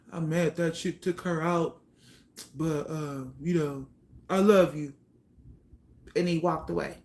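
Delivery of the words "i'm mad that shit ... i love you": father's voice. Retold or imitated. Father at the funeral talking to his daughter, lightly imitated. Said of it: "that's how he fucking sound".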